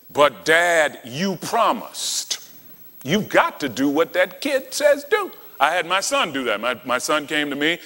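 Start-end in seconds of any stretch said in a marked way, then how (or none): 0.1-2.4 plain voice, slow on "you promised"; lightly hint at a child reminding dad; child pleading. Retold or imitated. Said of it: "When a child comes to you and says".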